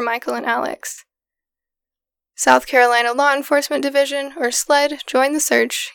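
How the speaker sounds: measured, scripted storytelling read; even documentary-style read; true crime narration. A narrator's reading. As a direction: narrate a grim case steadily, with pauses between sentences. Reads scripted true crime account.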